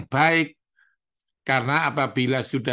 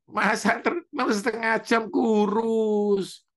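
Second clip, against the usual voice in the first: mocking disbelief; 9 semitones higher than usual. Pastor mocks congregant's expectation.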